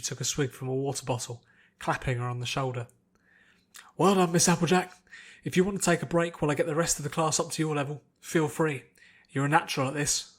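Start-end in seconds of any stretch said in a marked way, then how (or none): 4.0-10.3 a hint of a hearty trainer's praise; lightly voiced instructor. Instructor praising Applejack after her win, lightly voiced hearty trainer. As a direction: pat her on the back with your voice.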